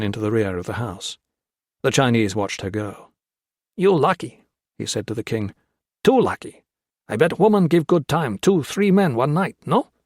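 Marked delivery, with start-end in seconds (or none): 3.8-4.4 high, raised voice in broken English; a wary bandit testing the stranger; suspicious guerrilla. Acted. Leering guerrilla. 6.0-9.9 high, raised voice in broken English; a wary bandit testing the stranger; suspicious guerrilla. Acted. Leering guerrilla taunt.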